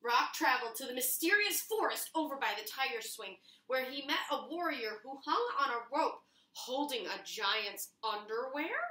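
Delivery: lively read-aloud storyteller voice; storybook narration. A narrator's reading. Children's librarian reading the picture book to young friends, storytelling. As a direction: tell it like a bedtime adventure for kids.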